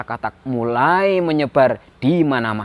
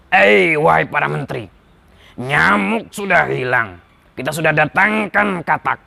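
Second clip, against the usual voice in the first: lightly voiced king addressing his ministers, groaning midway; troubled king. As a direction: complain as a weary king, then demand ideas. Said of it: "sang raja mengumpulkan para menteri-menterinya".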